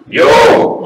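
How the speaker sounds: high, loud burst; hammed-up exclamation; straining outburst. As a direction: force out the one word you can manage. Handcuffed Italian forcing out letters.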